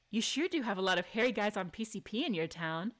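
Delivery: calm, smug delivery of the quip; composed cheeky retort; cool sass. Acted. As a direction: say it flat and knowing, no giggle. Same line reread as chosen.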